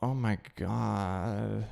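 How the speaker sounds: slow, soft disbelieving sigh; a drawn-out weary oh my god; exasperated groan. Real, not acted.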